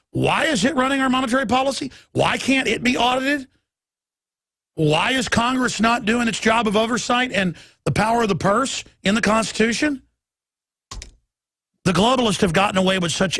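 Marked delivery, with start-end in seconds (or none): 0.1-10.0 higher, fast string of angry questions, pitched up; rising demand. Retold or imitated. Host voicing citizens who demand answers, higher and faster. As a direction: pile the questions on, pushing harder each time.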